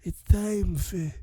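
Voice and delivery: lightly voiced Vito Corleone rasp; a hint of the Godfather don; Godfather impression. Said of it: "Vito from The Godfather".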